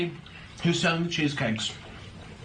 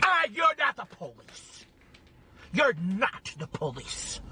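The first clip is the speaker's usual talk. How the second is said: slow mocking retort; 4 semitones higher, slower than usual. Real, not acted.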